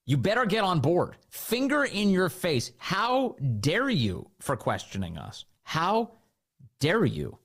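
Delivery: a hammed-up indignant scold; mock haughty scolding. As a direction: sneer it like a finger in the face. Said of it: "That is their attitude".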